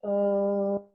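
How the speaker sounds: relaxed open vowel into the tube; easy open ah; open-throat ah. Shown as a demonstration. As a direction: let the throat open and sound a neutral ah. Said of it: "Let me hear an ah".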